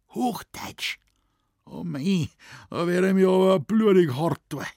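high, loud Bavarian groan of dismay. A narrator's reading. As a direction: balk at the idea in broad Bavarian. Moosbichler dismayed at High German. (hoher, lauter bayerischer Stoßseufzer)

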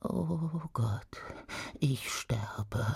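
horrified whisper. Acted. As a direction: breathe it in despair. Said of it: "flüsterte sie".

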